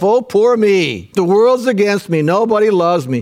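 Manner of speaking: hammed-up self-pity; mock self-pity. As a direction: play up the poor-me whine. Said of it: "sometimes I pity myself".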